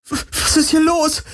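viel höher, panisch, stockend; überschlagende Stimme. A narrator's reading. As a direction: die Stimme vor Angst kippen lassen. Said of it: "Kirais Stimme überschlug sich". (Kirai fragt panisch, die Stimme überschlägt sich)

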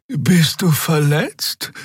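high, slow, caring question; concerned. A narrator's reading. Xea asks the wounded Keru, slow and concerned. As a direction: gently check on him. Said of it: "fragte Xea besorgt".

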